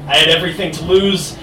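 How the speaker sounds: slow, measured spoken-word poem; poetry recitation. Acted. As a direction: recite it line by line, with pauses. Recites own poem on stage.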